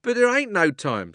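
high, loud rough cabman calling out; cockney cabby shouting. A narrator's reading. Cabby shouts over the crowd at the policeman, high and loud. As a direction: bellow at the policeman like a London cabby. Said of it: "said the cabby".

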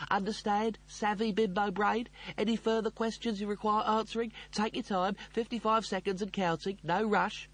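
high, pressed sarcastic rant; exasperated tirade. Acted. Dying computer explaining to Rimmer, exasperated. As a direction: spell it out with seething impatience.

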